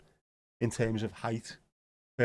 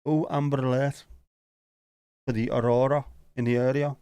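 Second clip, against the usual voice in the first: louder, hammed-up emergency broadcast voice; mock alert announcer; 5 dB louder than usual. Telling viewers about the aurora, mock alert announcer. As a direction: announce it like a public alert siren.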